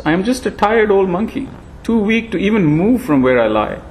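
put-on high, frail old sage voice; thin ancient voice, gently chiding; frail old monkey.

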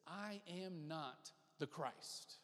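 very slow, low, soft declaration; solemn denial. Retold or imitated. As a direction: deny it quietly, word by word. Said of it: "He says this".

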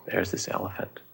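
whispered, storyteller's hush; hushed aside. A narrator's reading. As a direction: drop to a whisper to set the scene.

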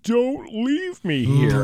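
high, slow mock plea; pleading kid. Kid silently begging a departing parent, pleading. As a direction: drag it out as a small, comic plea. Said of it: "she looks like".

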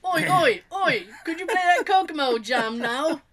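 put-on a light, cheeky British accent; mock British accent. Friend mimics the caller, in a light mock British accent. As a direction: toss off a bad Brit caller. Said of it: "Are you British now?".

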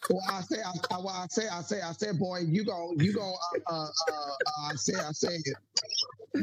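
lightly voiced blustery Southern rooster; Foghorn Leghorn. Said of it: "It's like Foghorn Leghorn screaming at you".

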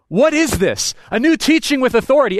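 목소리를 높여 빠르게 놀라워하며; excited amazement. Retold or imitated. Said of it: "what they walk away talking about".

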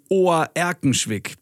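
„Ohr-Erkenschwick“ mit langem o vorn; Dehnungs-e. Shown as a demonstration. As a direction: sprich den Anfang von „Ohr-Erkenschwick“ wie das Wort Ohr. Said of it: "Dehnungs-E". (langes o in „Ohr-Erkenschwick“)

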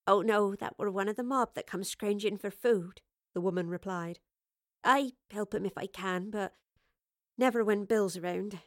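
a hint of a homely, rustic woman; lightly voiced homely woman. Woman explaining her life to a visitor, lightly voiced homely woman. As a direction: lightly play an easygoing host, chatting.

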